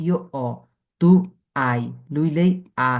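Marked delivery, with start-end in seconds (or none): 0.1-0.5 "অ" as a bare O vowel, no H; silent H. Shown as a demonstration. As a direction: say "ইও অ" with the H left silent. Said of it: "শুধু অ". ("অ" শুধু স্বরধ্বনি, হ নেই)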